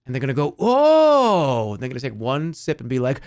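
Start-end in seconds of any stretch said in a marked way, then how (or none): 0.6-1.7 mock delighted gasp. Imagined customer's first reaction.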